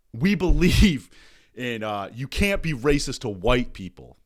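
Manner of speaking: loud mock show host proclaiming slogans; mock announcer. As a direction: ham up the earnest channel host. Mock woke channel slogan.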